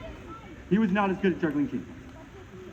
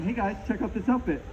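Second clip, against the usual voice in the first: mock posh French; 3 semitones higher than usual. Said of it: "That's like me going".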